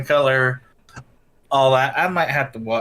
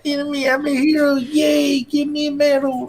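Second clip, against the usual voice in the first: higher mock old man, quick and proud; a silly old hero demanding medals; old man gamer brag; 7 semitones higher than usual. Husband joining in the old man impression. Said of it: "He does this old man voice".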